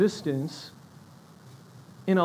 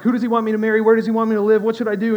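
mildly frantic, louder run of anxious questions; mock freaking out; 3 semitones higher, 5 dB louder, much faster than usual. Believer trying to figure out God's will, mildly freaking out. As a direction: imitate someone fretting, one question piled on the next. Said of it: "you freak out and it's like".

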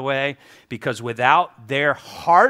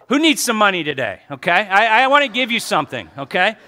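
excited offer; 6 semitones higher, 5 dB louder than usual. Real, not acted. Playful offer to congregation.

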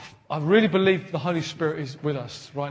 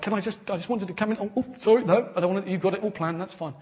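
apologetic Holy Spirit; faster than usual. Pretend. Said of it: "the Holy Spirit's like".

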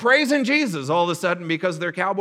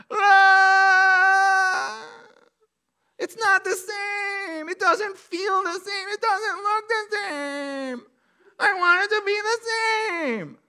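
high, slow, wailing complaint; mock lament; 14 semitones higher, much slower than usual. Pastor voices old priests mourning the temple, wailing high and slow. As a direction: whine that nothing is the same.

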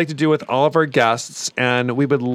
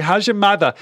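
mock Jewish accent; 4 semitones higher than usual. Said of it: "It always comes out like I'm Jewish".

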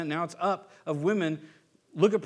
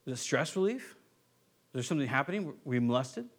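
gentle questioning; 3 semitones lower, 4 dB quieter than usual. Retold or imitated. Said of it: "we can ask questions".

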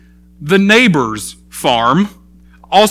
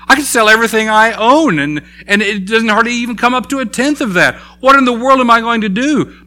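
high, pleading and desperate; a debtor begging his master, high and desperate; pleading servant; 5 semitones higher than usual. Acted. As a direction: beg the master for mercy. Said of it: "this servant begs and begs and pleads".

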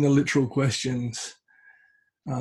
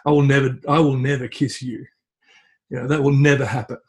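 horrified refusal; 3 dB louder than usual. Acted. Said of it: "he's horrified".

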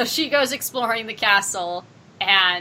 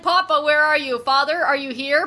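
retold yelling; 5 semitones higher than usual. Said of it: "She's been yelling".

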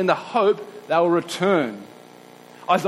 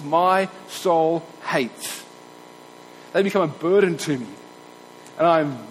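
scripture reading. Acted. Preacher reading God's words to Israel, grave and measured. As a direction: read it as God's weary indictment.

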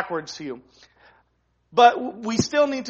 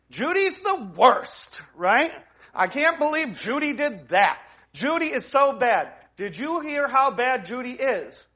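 gossipy churchgoer; 4 semitones higher than usual. Pretend. Mock gossip about Judy.

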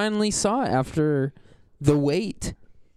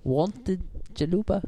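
put-on Russian accent, slow; thick Russian accent, drawn out; 4 semitones higher, 4 dB quieter, slower than usual. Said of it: "a Russian accent?".

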